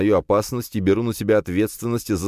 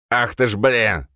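pained, irritated curse; a sharp louder oath; hissed curse; 5 semitones higher, 4 dB louder than usual. A narrator's reading. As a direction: curse through the sting. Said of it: "он зашипел".

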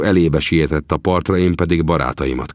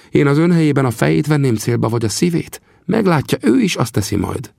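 high, scornful voice of a vengeful Apache; vengeful chief; 10 semitones higher than usual. Acted. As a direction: spit out the grudge against the enemy.

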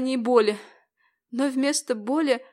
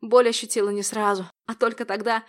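usual speaking voice

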